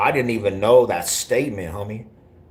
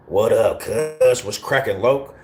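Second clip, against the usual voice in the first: a hint of East Denver street talk, a bit higher and livelier; light East Denver slang greeting to a homie; 4 semitones higher, slower than usual. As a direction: casually toss out an East Denver hello. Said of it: "That's how we talked in the P Js".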